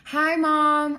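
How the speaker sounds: freeze, then greet the camera; posed greeting. Acted. Teen greets mom on video with an awkward pause, high and loud. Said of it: "Why did you pause like that".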